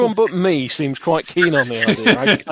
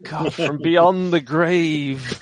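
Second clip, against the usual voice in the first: mock dramatic; much slower than usual.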